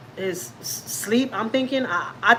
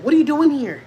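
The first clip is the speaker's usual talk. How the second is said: loud, high challenge to an intruder; startled yell; 6 semitones higher, 6 dB louder than usual. Retold or imitated. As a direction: shout at someone in the dark hallway. Husband yells at intruder in sleep.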